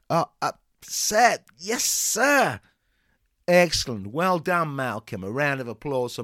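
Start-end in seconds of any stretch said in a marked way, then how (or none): 0.1-2.6 higher, meek and hesitant; timid. Acted. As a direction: answer like a cowed recruit. Cowed pupil answers.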